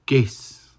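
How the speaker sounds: teacher showing the rising tone. Shown as a demonstration. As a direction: push the voice up on "Ges". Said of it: "Rising tone here".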